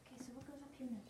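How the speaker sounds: hushed whispered question; whispering. Real, not acted. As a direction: whisper it so others keep working. Helper whispers during quiet work.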